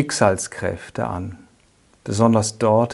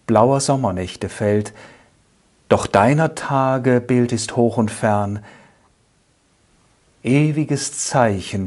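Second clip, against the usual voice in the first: solemn poetry reading, strong openings falling away at line ends; poem recitation. Acted. Speaker recites Ernst Stadler's first poem to listeners, measured poetic recitation. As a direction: recite the verse with measured pauses.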